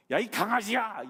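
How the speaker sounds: loud, high, mocking call of "puppy"; Jesus mock-calling out to the woman; calling someone a puppy. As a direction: throw the insult out loud. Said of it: "이렇게 얘기하고 있는 거예요".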